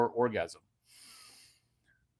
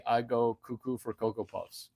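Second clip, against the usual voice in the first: a lightly different, softer voice; low testosterone voice; 2 semitones lower, 3 dB quieter than usual. Retold or imitated. Low-testosterone man saying the line, lightly voiced. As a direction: sound meek and limp. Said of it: "When you're low testosterone, you say".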